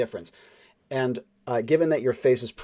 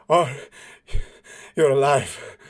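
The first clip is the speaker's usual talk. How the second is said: choked-up relief; 6 dB louder than usual. Acted. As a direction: force it out as if about to cry. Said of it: "He could barely hear him".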